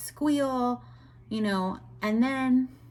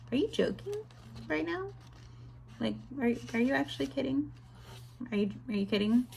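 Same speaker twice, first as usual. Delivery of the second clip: incredulous; 3 semitones higher, 6 dB quieter, much faster than usual. Retold or imitated. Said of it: "It literally made me so angry".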